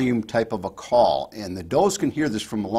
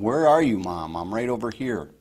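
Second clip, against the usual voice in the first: mock yelling. Shown as a demonstration. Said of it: "And this is yelling".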